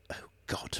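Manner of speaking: whispered under the breath; quiet whispered groan; muttered. Acted. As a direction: sigh it out voicelessly. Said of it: "muttered Safford".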